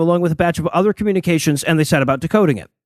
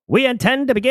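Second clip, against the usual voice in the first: put-on old-timey voice; 5 semitones higher than usual. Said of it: "in an old-timey voice and say "stop".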